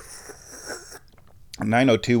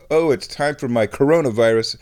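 rising pitch, much higher by the end; mounting mock panic; 4 semitones higher, faster than usual. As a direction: spiral up into hysterical fake panic.

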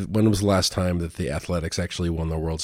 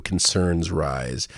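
"concerns rise." lower and very slow, contemptuous; sneering repeat; 4 semitones lower, 4 dB quieter, much slower than usual. Retold or imitated. Vlogger repeating the headline to curse at it, sneering. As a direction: spit back "concerns rise." with disgust, slowly. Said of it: "this is a weaselly headline".

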